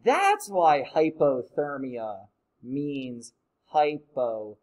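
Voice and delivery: realizing. Retold or imitated. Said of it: "I'm like".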